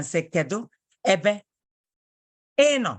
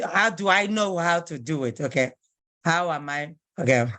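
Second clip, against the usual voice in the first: ordinary talk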